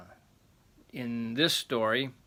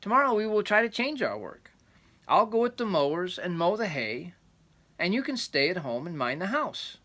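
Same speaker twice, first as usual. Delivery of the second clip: wife's voice; 8 semitones higher, 5 dB louder than usual. Acted. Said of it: "said the wife".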